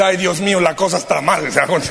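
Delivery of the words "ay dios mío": mock dismay. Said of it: "el Señor tiene que decir".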